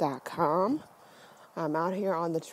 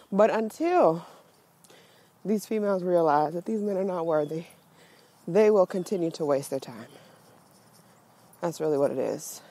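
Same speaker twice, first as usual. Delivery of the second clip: breathless from walking uphill; talking while short of breath. Real, not acted. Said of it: "sorry if I sound a little out of breath".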